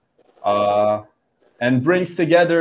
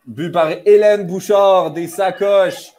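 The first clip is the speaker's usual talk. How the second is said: excited sports commentary; 8 semitones higher than usual. Real, not acted. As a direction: shout the goal with joy. Goal scored in live commentary. (annonce de but enthousiaste)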